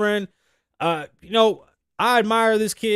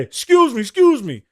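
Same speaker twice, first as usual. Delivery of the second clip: hurried apology; 5 semitones higher, 6 dB louder than usual. Retold or imitated. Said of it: "I heard the guy say".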